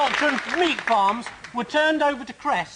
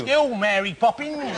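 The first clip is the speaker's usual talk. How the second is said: mock Cockney accent; slower than usual. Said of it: "in a Dick Van Dyke accent".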